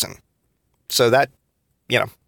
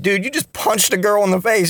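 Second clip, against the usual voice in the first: teasing disbelief; 8 semitones higher than usual. Retold or imitated. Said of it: "we just start fucking laughing".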